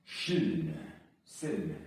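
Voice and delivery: loud, forceful Silny; powerful strong-sounding take. Shown as a demonstration. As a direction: say Silny like you mean power. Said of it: "silny would not sound powerful".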